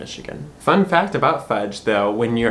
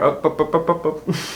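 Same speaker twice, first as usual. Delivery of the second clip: Michigander oh oh oh; 4 semitones higher than usual. Shown as a demonstration. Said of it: "you're just gonna hear".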